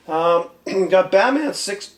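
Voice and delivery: hoarse, throat-clearing, slow; strained voice, clearing throat; losing his voice. Real, not acted. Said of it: "I'm losing my voice here".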